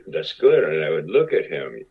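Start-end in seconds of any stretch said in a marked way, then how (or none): 0.1-0.6 mock eager. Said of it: "I go".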